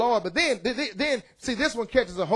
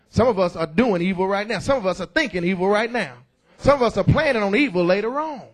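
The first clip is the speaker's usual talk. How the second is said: louder, driving each line home; loud preaching; 4 dB louder than usual. Real, not acted. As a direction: preach it out to the back pews. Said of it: "I'm sorry I'm so loud".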